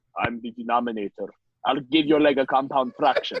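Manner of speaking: put-on, exaggerated, very low action-hero voice. Joking that denominator sounds like a Schwarzenegger movie, in an exaggerated deep voice. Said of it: "Deep voice".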